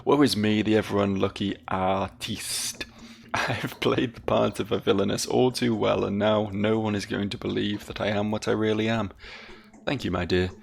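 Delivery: lightly theatrical lament of an unlucky artiste; self-pitying villainess. Acted. Villainess bemoans that no one will believe her, mildly theatrical self-pity. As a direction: play a touch of melodramatic woe. Voices a game character's lament.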